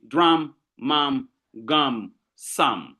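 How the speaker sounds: drum, mum, gum, sum set apart, each landing on the shared -um; teacher spacing out drum, mum, gum, sum; rhyming word list. Shown as a demonstration. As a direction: say drum, mum, gum, sum one at a time to show the rhyme. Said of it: "you have the same sound".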